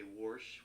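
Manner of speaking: Warsh with an r slipped in, Pittsburgh style; Pittsburgh pronunciation. Retold or imitated. Imitating grandmother's Pittsburghese, Warsh with an r. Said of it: "my grandmother used to say".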